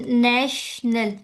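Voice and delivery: नेशनल slow with stress on ने; slow teacher demo of नेशनल. Shown as a demonstration. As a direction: stretch नेशनल, hitting ने. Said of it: "ना पे भी stress आ रहा है".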